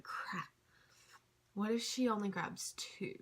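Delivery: unvoiced worried whisper; panicked whisper. Retelling her worry about the wristbands, whispered. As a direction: whisper the fear under your breath. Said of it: "And so I was like".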